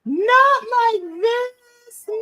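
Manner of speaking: high, slow wailing cry; anguished wail. Real, not acted. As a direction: wail it in fan despair. Fan despair at spear.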